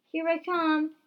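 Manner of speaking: high, loud call; loud heroic shout; yelled. A narrator's reading. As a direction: holler it as you charge in. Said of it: "Dixon yelled".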